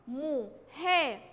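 slow "مو ها", each standing alone; separated syllables. Shown as a demonstration. Teacher analyses moving letters, "مو ها" slowly separated. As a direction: say "مو", pause, then "ها". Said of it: "هيقف لوحده".

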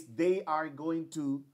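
slow, careful forms; slow model reading. Shown as a demonstration. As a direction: model both forms slowly. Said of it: "Aquí yo digo".

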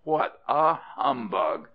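mocking questions rising to a high "eh?"; scornful disbelief. Rat mocking the pious cat, scornful disbelief. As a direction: scoff at a fraud, pitch climbing.

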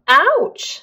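high yelp of pain; ouch of pain. Acted. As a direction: cry out as your foot's stepped on. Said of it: "said Mister Happy".

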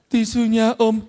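mild drawn-out beggar's whine on "tisunya om"; "tisunya om" said pleadingly, like begging. Shown as a demonstration. Mimicking a street kid begging drivers, lightly whiny. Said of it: "itu ngemis".

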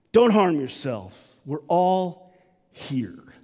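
slowed; tender call. Acted. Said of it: "he yells out".

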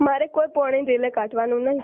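sobbing and shouting back; tearful outburst at the accusation; crying shout. Acted. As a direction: burst out crying in protest. Tearful quarrel on the phone.

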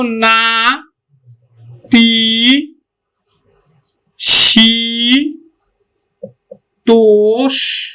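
না, তি, শি, তোষ each held long, pauses between; isolated stretched syllables না, তি, শি, তোষ; broken into syllables. Shown as a demonstration. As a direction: split it slowly into না, তি, শি, তোষ. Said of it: "ভেঙে দেই".

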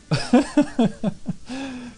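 high villain giggle; evil laugh. Acted. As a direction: cackle with glee. Böses Lachen über Spaß. (böses Kichern)

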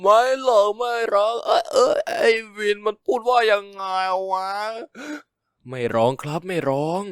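crying while denying tears; tearful denial. Acted. Drunk heartbroken friend denies crying, in tearful voice. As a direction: drunk and sobbing, insisting he isn't crying. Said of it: "ไม่ร้องก็เหี้ยแล้วล่ะ น้ำตานองขนาดนั้นน่ะ".

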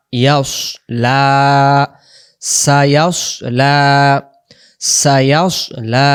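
"ইয়াস" rounded like "yaws", "লা" held long; rounded recitation. Shown as a demonstration. Teacher drilling students on the word, "ইয়াস" rounded and heavy. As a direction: round and thicken "ইয়াস", then stretch "লা". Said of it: "মুখটা গোল হবে".

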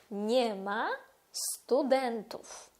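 slow Polish model of nie ma studentów; Polish form. Shown as a demonstration. Teacher modelling the Polish form slowly. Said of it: "Тобто ми скажемо".

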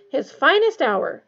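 slow, loud mock eulogy; mock solemn. A narrator's reading. Fred teasing Ron about the rat, mock solemn. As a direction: pronounce it grandly, amusement underneath. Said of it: "unable to keep a straight face".

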